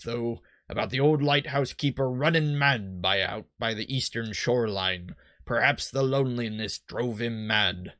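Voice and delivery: slow, lightly salty sailor; generic pirate. Acted. Boat salesman passes on lighthouse gossip, light pirate voice. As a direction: spin it like a stock pirate's yarn. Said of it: "my generic pirate".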